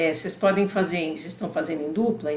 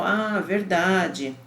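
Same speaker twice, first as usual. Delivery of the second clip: slow realization; much slower than usual. Retold or imitated. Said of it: "O segundo é uma confirmação".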